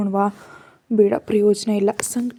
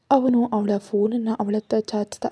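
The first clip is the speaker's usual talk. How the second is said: ordinary delivery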